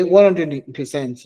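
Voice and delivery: slow, drawn-out Nigerian accent. Shown as a demonstration. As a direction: say it like a Nigerian uncle. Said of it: "Let me use my Nigerian accent".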